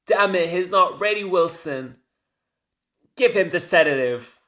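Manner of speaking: retold command, tense yet controlled; urgent but cool. Miranda orders her assistant to sedate Shepard, urgent but cool. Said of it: "she still keeps her cool".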